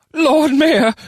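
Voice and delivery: very high, loud goblin squeak. A narrator's reading. Goblin bursting in on the mayor, squeaking. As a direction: squeal it out as an alarmed little goblin. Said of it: "squeaked a goblin".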